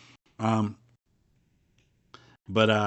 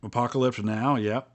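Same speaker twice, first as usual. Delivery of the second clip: biting an apple. Real, not acted. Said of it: "Sorry, I'm eating an apple".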